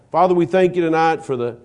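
prayer. Acted. Leads closing prayer.

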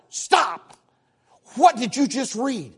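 a hint of a startled inner voice, slowed; lightly voiced stop-and-think; inner voice halting. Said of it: "It was like".

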